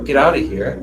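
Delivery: mild retold dismissal. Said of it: "And I said".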